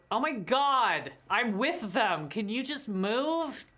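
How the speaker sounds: exasperated, slow and drawn out; annoyed escort. Acted. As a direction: huff at the guards to move aside. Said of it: "she just goes".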